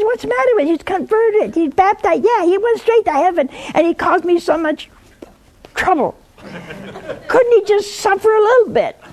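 high, hammed-up outraged wife, laughing at the end; mock indignant woman. Nun mimics an angry widow for the caller, hammed-up and high. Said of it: "And she was so mad".

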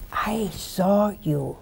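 slow, soft whisper of a secret; hushed whisper. Acted. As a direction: breathe it like a confidence. Jesus quietly tells Nathaniel.

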